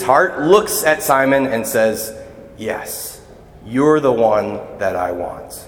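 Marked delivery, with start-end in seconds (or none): 2.6-5.6 tender. Retold or imitated. Jesus gently chooses Simon.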